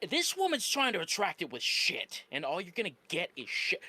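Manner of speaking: usual speaking voice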